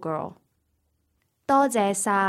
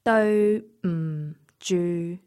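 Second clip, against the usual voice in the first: slow; slower than usual. Shown as a demonstration. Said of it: "illustration of these three level tones".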